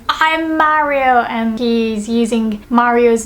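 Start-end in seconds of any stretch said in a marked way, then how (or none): 0.1-1.3 higher, drawn-out boast; lightly voiced Wario. Wario posing as Mario, lightly hammed-up boast. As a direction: claim the name as an impostor, slowly. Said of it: "let's imagine Wario is saying".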